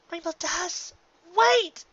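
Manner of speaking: high, loud call after her; desperate shout. Acted. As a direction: shout her name to stop her. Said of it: "Rarity shouted".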